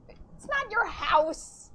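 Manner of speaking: mock creepy voice. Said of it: "So when I hear them, like".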